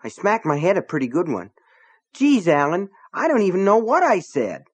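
rattled but still indignant; trembly, still angry. A narrator's reading. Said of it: "His voice was trembly".

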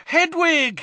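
high, loud cry of the owl's name; shout. Acted. Harry calling to his owl at the window, shouting. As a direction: call out, delighted. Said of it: "he shouted".

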